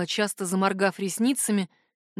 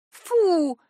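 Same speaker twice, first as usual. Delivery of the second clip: a high, squeamish "Фу!" of disgust; 9 semitones higher, 4 dB louder than usual. A narrator's reading. Witch recoiling from Jar's lick, disgusted. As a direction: wrinkle your nose and spit it out. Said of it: "скривилась ведьмочка".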